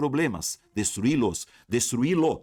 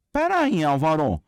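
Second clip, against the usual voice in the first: student interrupting; 5 semitones higher, 5 dB louder than usual. Pretend. Teacher voices a student interrupting.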